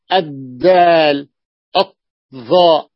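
الدال, الظاء slow and emphatic; slow recited examples. Shown as a demonstration. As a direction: stretch each sun letter name with its doubled letter. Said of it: "أضفت مباشرة".

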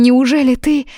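high, loud, breathless disbelief; can it really be you; astonished. Acted. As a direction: Yuna overwhelmed that Kayden freed Tim. Yuna stunned by his mercy.

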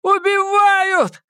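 high, drawn-out cry for help; desperate high-pitched yell; screaming for help. A narrator's reading. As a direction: scream for the neighbours to hear. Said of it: "громко закричал Эдди".

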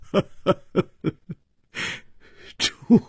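bitter laughter. A narrator's reading. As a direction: laugh out the name with aching resentment. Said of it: "笑声中竟然充满了悲愤，像是有满心的怨气". (悲愤地大笑着喊)

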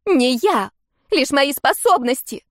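high, loud bitter retort. Acted. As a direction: throw it back bitterly, near tears. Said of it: "горько бросила дочь".

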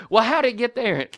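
mock interrogation; accusing. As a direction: demand an answer like a cross mom. Kim's angry question retold.

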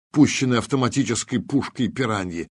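ordinary delivery, nothing marked

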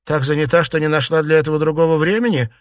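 mock her with cold anger; young lady sneering at the old aunt; angry sarcasm. A narrator's reading. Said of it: "зло усмехнулась".

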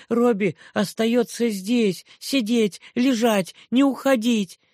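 put-on bossy toddler ordering a pet; little girl commanding. A narrator's reading. Child clings, commands. (детский приказ, высоко и громко)

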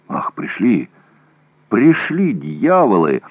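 excited yell, voice jumping high; shouting. A narrator's reading. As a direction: shout the news with rough relief. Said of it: "закричал Орлов".

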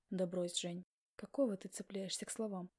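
usual speaking voice

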